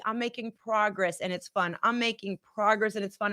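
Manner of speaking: soft affirmation. Shown as a demonstration. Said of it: "Say it with me".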